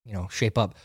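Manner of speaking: hushed urgent whisper to a sleeping recruit; quietly nudging a dozing buddy, hushed; whispered warning. Retold or imitated. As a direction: whisper it so the instructor can't hear. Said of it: "poke him in the back and be like".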